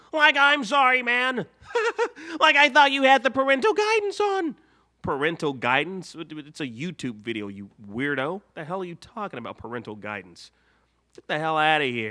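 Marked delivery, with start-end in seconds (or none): 0.1-4.5 very high, loud, goofy cartoon voice. Answering a scolding for swearing in a two-voice skit, in a Shaggy voice. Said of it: "What the hell is wrong with you, Shaggy?".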